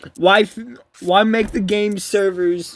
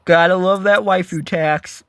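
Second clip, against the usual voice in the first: dry sarcasm, said like plain talk; deadpan mock appreciation; sarcastic. Real, not acted. Gamer griping to viewers about a card's price, sarcastic. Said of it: "I'm being sarcastic".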